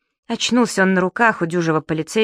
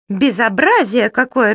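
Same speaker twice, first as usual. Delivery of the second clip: slow, higher, louder indignant squeak; squeaky lady; 4 semitones higher, 4 dB louder, slower than usual. Acted. A lady in a flowery dress squeaks at the disgrace, indignant. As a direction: squeak out your outrage. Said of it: "пискнула дама в цветастом платье".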